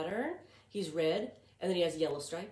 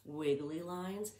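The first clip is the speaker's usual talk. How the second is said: slow, wavy, up-and-down voice; drawn-out wobbly sing-song; wiggly voice; 3 dB quieter than usual. Shown as a demonstration. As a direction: let the voice wiggle like the line. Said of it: "Do you hear my pattern?".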